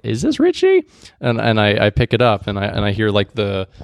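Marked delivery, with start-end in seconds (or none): 0.0-0.8 high strained rasp; mock raspy caller. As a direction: croak it out like an old smoker. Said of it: "I'm like".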